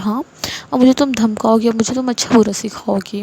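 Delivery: a touch of indignant challenge; lightly acted cross retort, volume held near normal; mildly angry. Mother challenging her daughter for talking back, mildly angry. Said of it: "غصے سے کہتی ہے".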